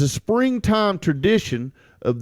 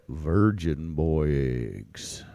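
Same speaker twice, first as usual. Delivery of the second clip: very deep, slow and quieter; low voice; 12 semitones lower, 8 dB quieter, slower than usual. Shown as a demonstration. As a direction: drop the voice way down. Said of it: "Just like that".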